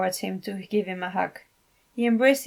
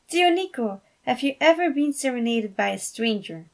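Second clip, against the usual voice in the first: put-on young girl voice; 4 semitones higher, 3 dB louder than usual. Niece teasing uncle.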